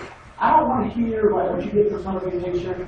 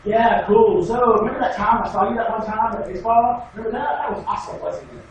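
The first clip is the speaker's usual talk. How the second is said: mock small talk. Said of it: "Deontay's like".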